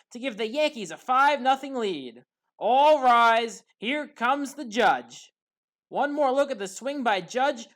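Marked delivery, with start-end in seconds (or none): 2.6-5.3 louder on all rise, then drawn out slowly; booming catchphrase, slowed way down at the end; home run call. Acted. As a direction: announce the Judge like a grand home run call.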